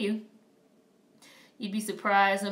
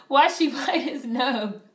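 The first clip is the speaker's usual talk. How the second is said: mock quoting chat; 5 semitones higher, 6 dB louder, slower than usual. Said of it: "Why did you say it like that?".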